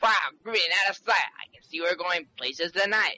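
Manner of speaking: smooth radio deejay patter, a bit rushed; disc jockey voice. Acted. Nervous kid faking a deejay for the reporter. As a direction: rattle off the deejay catchphrase fast. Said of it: "a disc jockey voice".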